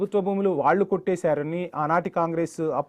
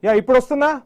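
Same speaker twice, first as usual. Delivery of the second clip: raised, higher-pitched check on the line; calling out; 5 semitones higher, 4 dB louder than usual. Real, not acted. Anchor checking whether remote guest hears him, calling out. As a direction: call out to an unresponsive remote guest.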